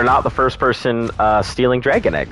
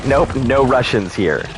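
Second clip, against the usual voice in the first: fake Russian accent; slower than usual. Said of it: "No, no accent".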